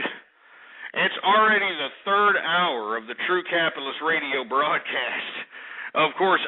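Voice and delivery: slow, deliberate announcer read; host voice naming the show; radio host intro. Acted.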